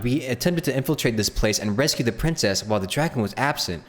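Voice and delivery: earnest questing hero, rising to eager; rally them toward the quest; lightly voiced noble knight. Streamer dubbing the knight to the traveler, eager hero voice.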